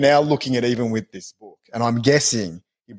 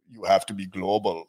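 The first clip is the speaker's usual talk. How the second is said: mock Arnold German accent, low and soft; imitating Arnold telling Will to go global; 5 semitones lower, 5 dB quieter than usual. Arnold advising Will Smith in a put-on German accent. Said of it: "that sounded German".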